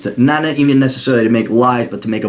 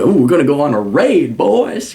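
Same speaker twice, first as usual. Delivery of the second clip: put-on light cowboy southern accent; rally the posse in a playful southern accent; hint of a southern lawman's accent; 3 semitones higher than usual. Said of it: "really work on my southern accent".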